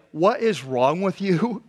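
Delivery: slow, exasperated demand; mock-exasperated disciples; irritated. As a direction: spell out your irritation word by word. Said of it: "you can hear the irritation in their voice".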